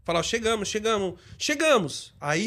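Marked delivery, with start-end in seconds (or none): 1.4-2.1 a bit louder, not shouting. Shown as a demonstration. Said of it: "falar uma voz um pouquinho mais alta, não gritando".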